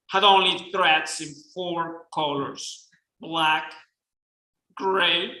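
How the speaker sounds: put-on reading in a self-admittedly shaky Southern accent; attempted Southern accent. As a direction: give it your best try at a Southern accent, a Mexican speaker's attempt. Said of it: "this is me trying a Southern accent".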